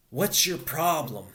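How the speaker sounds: slow, confrontational challenge out loud; challenging cue line. Shown as a demonstration. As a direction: throw the prompt line out slowly and firmly. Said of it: "the line is".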